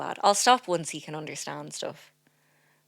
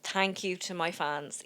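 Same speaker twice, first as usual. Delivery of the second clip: slow, softer thanks to imaginary fans; off-mic mock acceptance; 7 dB quieter, slower than usual. Nominee thanking her fans away from the mic, softly mock-grateful. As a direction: accept the award slowly and softly. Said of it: "Now, speak into the mic now".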